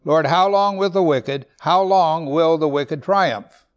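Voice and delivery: loud pleading question; lamenting plea. Acted. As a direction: press the question on God. Psalmist's lament repeated.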